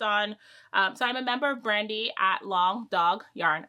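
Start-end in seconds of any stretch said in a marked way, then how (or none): 1.6-3.7 each word carefully separated; careful, word-by-word enunciation; slow, deliberate name. Real, not acted. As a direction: say the tricky name slowly so it comes out right. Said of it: "have to say it that slow".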